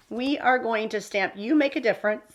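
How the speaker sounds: talking with the hiccups; speaking through hiccups. Real, not acted. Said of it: "Excuse me, I got the hiccups".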